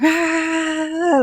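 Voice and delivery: a high, quick imitated yelp; mock yell. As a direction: toss off a light mock cry. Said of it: "like, some yelling".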